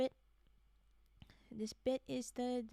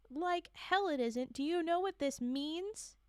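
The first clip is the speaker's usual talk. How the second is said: slow, louder furious retort; angry interruption; 6 semitones higher, 6 dB louder, slower than usual. Acted. Marley interrupts Burns about her results, slow angry retort. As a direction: cut him off in anger.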